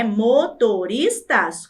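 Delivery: slow "Motoristas" in four separate beats; syllable by syllable. Shown as a demonstration. Teacher repeating four syllables for pupils, slowly split. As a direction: draw out each syllable of "Motoristas". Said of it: "quatro sílabas".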